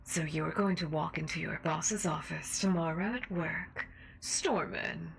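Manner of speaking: menacing seductive host voice; sinister mistress. Acted. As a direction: taunt him like a cruel mistress. Sinister radio host role.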